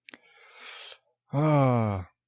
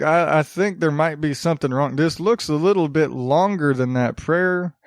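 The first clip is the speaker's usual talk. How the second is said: lightly louder country hick voice; Southern hick accent; 3 dB louder than usual. Acted. Sri Lankan printer doubting the prayer, in Southern hick accent. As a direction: do a generic backwoods Southern printer. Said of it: "sound like they're from, from the middle of nowhere in the South".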